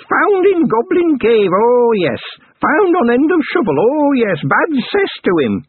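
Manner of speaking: high, slow crone voice with a bitter edge; bitter goblin crone. A narrator's reading. Goblin granny scorning the pot's finder, bitter high crone. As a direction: sneer it out slowly like an old goblin.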